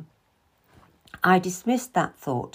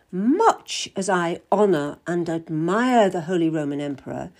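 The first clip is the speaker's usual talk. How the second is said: a slightly fuller, measured churchman; a hint of a lecturing cardinal; lightly voiced cardinal; 3 dB louder than usual. Cardinal Wolsey lecturing the Queen, measured and slightly fuller.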